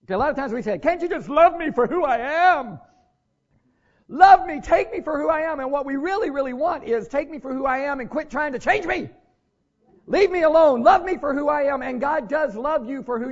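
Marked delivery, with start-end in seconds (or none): 0.8-5.6 hammed-up plea, higher and louder; mock pleading. Preacher mimicking churchgoers begging God, a pleading whine. 7.1-11.8 hammed-up plea, higher and louder; mock pleading. Preacher mimicking churchgoers begging God, a pleading whine.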